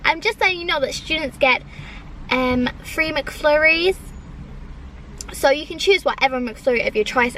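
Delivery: a mildly hammed-up server explaining an offer; put-on accent. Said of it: "he literally said it in that accent".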